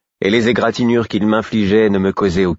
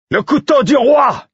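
a high, loud battle cry held slow; shouting; 5 dB louder than usual. A narrator's reading. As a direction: proclaim it to the whole hall. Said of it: "criai-je en le montrant".

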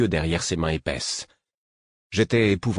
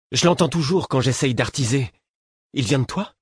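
astonished; 6 semitones higher than usual. A narrator's reading. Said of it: "Il paraissait sidéré".

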